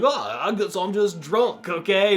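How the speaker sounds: put-on slow, lightly slurred drunk boss; lightly voiced drunk. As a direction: shrug it off slowly like a mild drunk. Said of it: "he's like".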